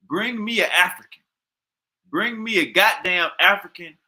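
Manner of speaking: heated demand. Real, not acted. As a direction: shout it like a challenge. Heated rant demanding sources.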